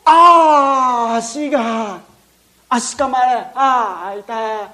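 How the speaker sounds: crying out in pain, voice cracking. Acted. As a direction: yelp as the leg is bitten. Boy bitten by crocodile cries out. (足をかまれて痛がる叫び)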